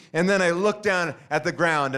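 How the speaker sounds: normal talking voice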